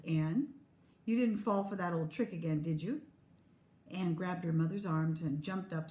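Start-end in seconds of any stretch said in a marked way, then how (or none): 0.0-3.0 a touch of calm, unhurried mother; steady her gently, no fuss; low calm voice. Acted. Mother calmly questions her daughter about the old trick. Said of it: "She said in a low, calm voice".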